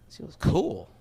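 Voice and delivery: acted inward echo with a falling end; brooding echo. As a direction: replay her answer to yourself, unconvinced. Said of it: "I'm not thinking to myself".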